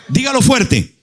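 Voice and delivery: a shouted cue to the congregation; calling out. Real, not acted. Preacher urges congregation.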